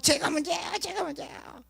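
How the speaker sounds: high-pitched parody of self-blaming prayer; mock pleading prayer. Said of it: "막 이러면서". (높은 목소리로 과장해서 흉내 내는 애원 기도)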